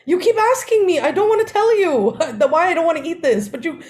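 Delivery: high, laughing mom voice; mom voiced. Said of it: "And she's like".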